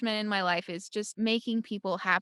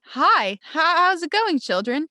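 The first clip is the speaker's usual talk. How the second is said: put-on high, louder sing-song hello to kids; cheerful cast-member greeting; 7 semitones higher, 8 dB louder, slower than usual. Cast member greeting excited kids, high bubbly sing-song. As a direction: greet the children like a bubbly park host.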